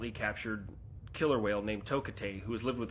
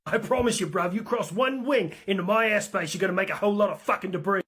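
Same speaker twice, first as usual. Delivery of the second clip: higher, louder cocky warning, fast at the end; cocky pilot threat; 7 semitones higher, 5 dB louder than usual. Acted. British pilot warns Russian bombers off his airspace, loud and cocky. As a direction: swagger the warning at them.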